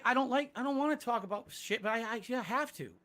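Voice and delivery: emotional. Real, not acted. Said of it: "I'm sorry I'm getting emotional".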